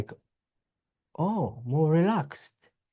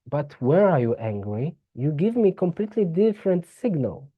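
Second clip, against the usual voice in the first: body's voice; 3 semitones higher than usual. Acted. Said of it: "and the body says".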